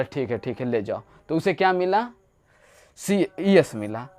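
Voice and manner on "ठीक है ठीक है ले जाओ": king granting. Retold or imitated. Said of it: "तो बोला".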